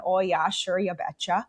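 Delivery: put-on "you betcha" Midwestern accent; playing up Midwestern accent. Shown as a demonstration. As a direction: lean into a folksy Minnesota accent. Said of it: "I can feed into this".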